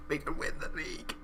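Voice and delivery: full whisper, no voice at all; awed whisper. Real, not acted. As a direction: whisper it like a secret too big to say. Repeats the daring hope in whisper.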